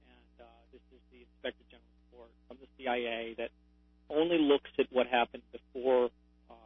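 very faint, far off phone voice; talking away from the receiver; phone held away. Real, not acted. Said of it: "It's fading a little bit".

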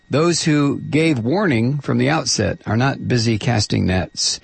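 measured, emphatic political read; essay read aloud. Real, not acted. Host reading an Obama essay on air, measured emphatic delivery. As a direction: read out a polemic with deliberate phrasing.

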